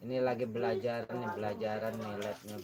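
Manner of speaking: cigarette in mouth. Real, not acted. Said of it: "Sambil ngerokok".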